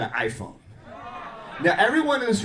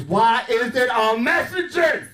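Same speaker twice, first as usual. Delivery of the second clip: mock outraged; 7 semitones higher, slower than usual. Voicing her suspicion.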